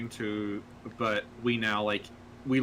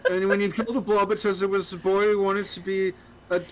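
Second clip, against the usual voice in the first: giggling through the words; laughing while talking; 8 semitones higher, 6 dB louder than usual. Real, not acted. Laughing while explaining blob.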